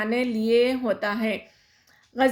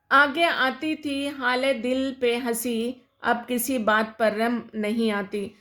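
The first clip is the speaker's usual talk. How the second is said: poem recitation. Shown as a demonstration. Teacher recites the couplet. (آہستہ انداز میں شعر پڑھنا)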